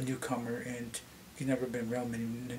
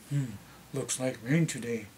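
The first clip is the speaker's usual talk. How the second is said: deeper elder voice. Retold or imitated. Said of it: "their voice level will go deeper".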